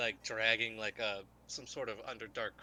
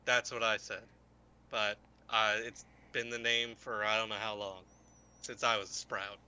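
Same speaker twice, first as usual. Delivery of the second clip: jaded warrior; 5 dB louder than usual. Acted. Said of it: "Lubamu just looks at you and goes".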